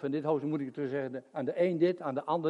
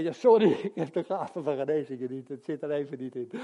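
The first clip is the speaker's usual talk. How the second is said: mock excuse; 2 semitones lower than usual. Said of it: "kon ik zeggen".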